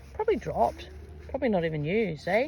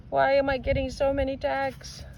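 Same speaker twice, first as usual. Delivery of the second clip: silly odd voice; 5 semitones higher than usual. Acted. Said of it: "Oh my God, what is that voice?".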